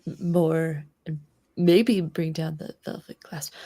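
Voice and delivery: hushed whispering. Acted. Player plotting against the Velvet Clasp, hushed half-whisper. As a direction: speak softly, slipping in and out of a whisper. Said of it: "Why are you guys getting progressively quieter".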